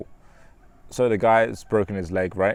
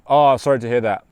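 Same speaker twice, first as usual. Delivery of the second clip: offhand sorry; 2 semitones higher, 7 dB louder than usual. Shown as a demonstration. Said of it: "That's an invalidating response".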